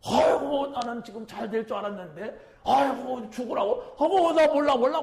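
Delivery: high, wailing cries of despair, a bit hammed up; mock panicked wailing. Preacher voicing Peter fleeing the cross, mock panicked wailing. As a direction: throw up your hands and wail, mock terror.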